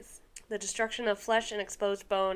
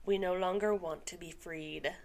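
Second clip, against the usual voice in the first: calm voice; 3 semitones lower than usual. Acted. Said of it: "in a calm voice".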